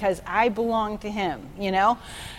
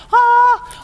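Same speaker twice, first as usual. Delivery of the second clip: excited exclamation; 14 semitones higher, 9 dB louder than usual. Retold or imitated. Reacting to the pastor's point.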